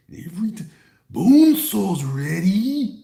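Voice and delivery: high, loud, very slow call; Bone Saw announcer. Retold or imitated. Streamer quoting the Bone Saw line, drawn out. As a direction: stretch it out like a ring announcer. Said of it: "Remember that nonsense?".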